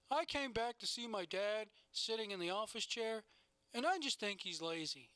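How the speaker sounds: evenly patterned, lightly imitated talking-head delivery; same repetitive flow. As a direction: mimic a reality-show interview cadence. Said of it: "it would flow the same way".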